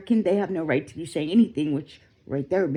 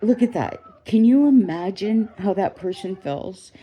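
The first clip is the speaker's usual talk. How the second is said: raised, heated plea; outraged; 3 semitones higher, 5 dB louder than usual. Real, not acted. Urging the viewers to imagine her pain, heated. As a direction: push the disbelief out loud.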